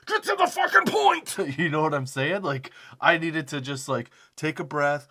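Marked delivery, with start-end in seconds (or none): 0.1-1.4 much higher, louder impatient shout; exasperated yell. Pretend. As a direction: blast it out, patience gone. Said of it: "freak out and be like".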